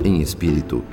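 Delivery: ordinary talk, nothing marked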